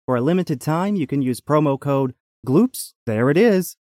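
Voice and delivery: lively promo read; upbeat commercial announcer. Acted. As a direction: sell it like a radio sponsor spot. Reads the sponsor's promo.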